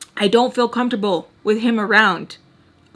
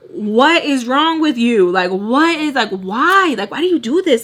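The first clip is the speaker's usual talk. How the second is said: exasperated, stressing each question; infuriated; 2 semitones higher than usual. Retold or imitated. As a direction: demand answers in disbelief. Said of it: "it infuriated me".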